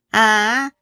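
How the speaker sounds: lightly voiced mother-in-law, lilting upward; casually explain, stretching the last words; chatty mother-in-law. Mother-in-law explaining the side dishes, lightly acted chatty tone. 시어머니가 딸 자랑하며 답함.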